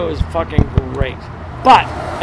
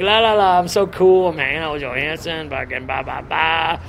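mock carefree. Storyteller mimicking his oblivious young self in the booth, mock carefree. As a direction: act out oblivious self-satisfied babble. Mimes himself carelessly cool in booth.

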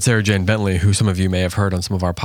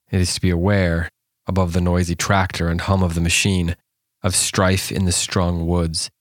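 poem reading. Acted. Host reading the Welsh poem to listeners, measured and solemn.

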